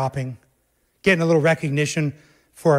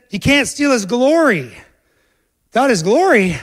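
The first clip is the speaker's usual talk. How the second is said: emphatic warning; 7 semitones higher, 7 dB louder than usual. Acted. Preacher voices warning about glory.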